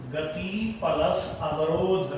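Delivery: गति प्लस अवरोध said very slowly, each part apart; slow, spelled out. Shown as a demonstration. Teacher explaining the rule, slow and deliberate. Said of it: "नियम समझ लो इसका".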